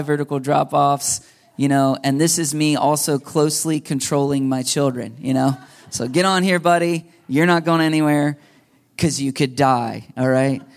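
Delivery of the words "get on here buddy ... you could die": a hammed-up protective father keeping his son off the edge; stern dad warning. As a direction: playfully bark at the kid to stay put. Dad warning son on cliff trail.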